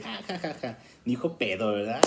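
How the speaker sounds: high mock laughing ja ja ja; mock family laughter. Relatives at the gathering laugh at the child, mock laughter. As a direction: laugh at the kid's slip, lightly acted. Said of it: "todos nos vamos a reír".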